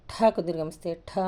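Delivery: "ఠ" with a strong puff of breath; aspirated consonant. Shown as a demonstration. Teacher showing learners an aspirate, breathy burst on "ఠ". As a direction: push "ఠ" out from the belly. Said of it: "ఇది మహాప్రాణాక్షరాలు కాబట్టి".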